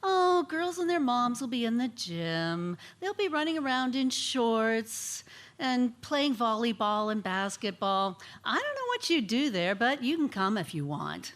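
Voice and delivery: put-on bratty, dismissive teenager brushing mom off; snotty teen. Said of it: "I said something snotty like".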